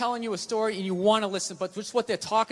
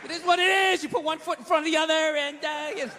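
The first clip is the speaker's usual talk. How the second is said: noncommittal response; 5 semitones higher than usual. Acted. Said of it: "You gotta come with something neutral".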